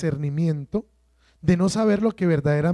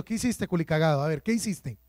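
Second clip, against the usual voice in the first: softer, quick mock scold, understated; a hint of a scolding parent; 3 semitones lower, 6 dB quieter, faster than usual. God imagined scolding Adam, lightly voiced. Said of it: "Dios no llegó diciendo".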